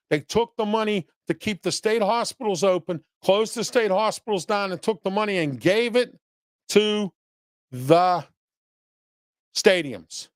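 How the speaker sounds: lightly acted quote, each word spaced out; slow quoted emphasis. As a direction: read the quote slowly, pausing before the last words. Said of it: "who said, and I quote".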